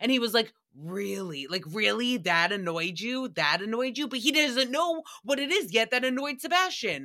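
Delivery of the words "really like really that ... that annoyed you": usual speaking voice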